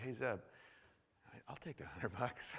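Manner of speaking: low, soft, easygoing acceptance; casual ask. Acted. Preacher acting himself taking Zeb's offer, casual and quiet. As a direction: say it offhand and quiet, no pressure. Voicing a relaxed, trusting request.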